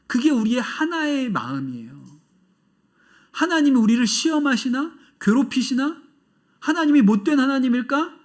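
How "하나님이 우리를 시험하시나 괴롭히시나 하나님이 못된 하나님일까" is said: higher, louder doubting questions; voicing doubt. Preacher voicing the congregation's doubts, higher and louder. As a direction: voice a doubting heart, raised and pleading. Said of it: "이건 두 마음이고요".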